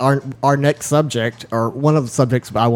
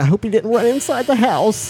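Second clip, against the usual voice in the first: retold worry; 9 semitones higher than usual. Retelling own worry about intruder.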